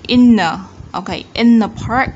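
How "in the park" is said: IN THE PARK with IN THE run together as "inna"; linked sounds. Shown as a demonstration. Teacher showing learners linking, IN THE blended before PARK. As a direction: run IN into THE, then a firm PARK. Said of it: "chúng ta nối âm được".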